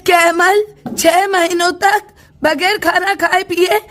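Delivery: a grandmother's loud nagging scold; scolding grandma. Acted. Grandmother to her son, mocking his impatience, loud scold. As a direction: tell off a lazy son sharply.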